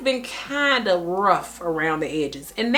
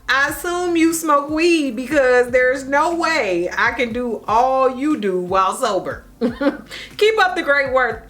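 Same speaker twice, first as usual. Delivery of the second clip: reading through real laughter; giggling as you read it out; slow, laughing read of a funny comment; 5 semitones higher, 4 dB louder than usual. Real, not acted. Reads comment while laughing.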